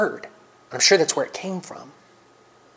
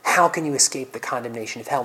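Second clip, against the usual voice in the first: loving grief; 2 semitones lower than usual. Acted. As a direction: ask it in sorrow, not condemnation. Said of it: "with perfect love in his heart".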